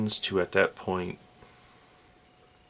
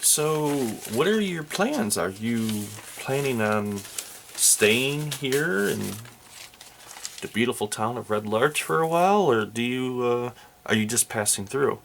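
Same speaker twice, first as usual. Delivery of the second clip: innkeeper voice; 2 semitones higher than usual. Acted.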